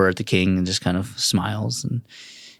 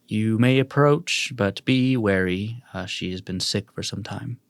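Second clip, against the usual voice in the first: lightly voiced cautioning king. King lets visitor approach the sick beast, measured caution. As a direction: grant leave with a measured warning. Game master plays the king warning.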